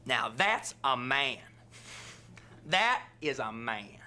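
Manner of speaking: slow, drawn-out approval; admiring woman. Retold or imitated. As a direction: savour it like she's impressed. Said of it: "you hear this, like, black woman".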